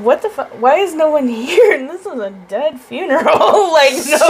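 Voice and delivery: giggling mock alarm; laughing retold panic. Retelling her confusion at the empty funeral home while laughing. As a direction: laugh through the outburst. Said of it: "And I'm like".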